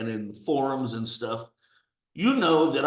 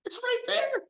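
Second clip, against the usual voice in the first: hushed whispered repeat. Real, not acted. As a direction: whisper it, much higher and hushed.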